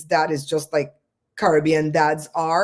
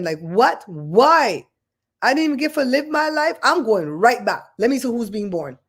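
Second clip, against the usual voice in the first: mock indignation; 4 semitones higher than usual. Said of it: "I was gonna be angry up in heaven".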